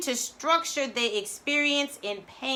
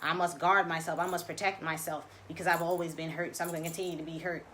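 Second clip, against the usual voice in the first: lower, fast, lightly voiced nagging inner voice; voice of the ego; 5 semitones lower, faster than usual. Voicing the ego's discouraging chatter for listeners, lower and fast. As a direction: rattle off the ego's put-downs, a touch darker. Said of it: "That's those impressions".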